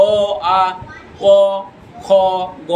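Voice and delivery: অ, আ, ক, খ, গ sounded alone with pauses; teacher reciting অ আ ক খ গ; letter sounds. Shown as a demonstration. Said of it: "ব্যঞ্জন ধ্বনি উচ্চারণ হচ্ছে".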